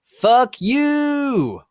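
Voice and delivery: very high, loud screamed curse; furious scream. Acted. Author screaming a curse at the flamers. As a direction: scream it at the haters.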